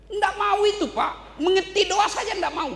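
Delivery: high, loud scolding preacher; loud mocking rebuke from the pulpit; indignant preaching. Real, not acted. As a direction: scold them at full force.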